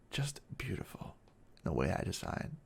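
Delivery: breathy whispered aside. Acted. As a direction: drop to an intimate whisper. Obsessive lover describing ideal partner.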